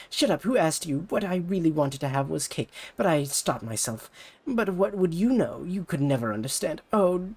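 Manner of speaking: put-on high, pushy rival-girl voice; bratty rival idol. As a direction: talk down to her like a snobby idol. Ulala snaps and panics.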